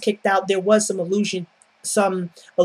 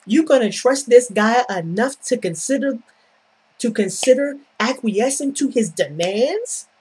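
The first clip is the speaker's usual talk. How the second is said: mock incredulous; 4 semitones higher than usual. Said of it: "And I'm like".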